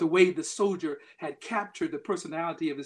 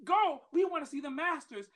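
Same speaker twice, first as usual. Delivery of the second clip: impatient crowd; 10 semitones higher than usual. Retold or imitated. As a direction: hurry them along, fed up. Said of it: "They said".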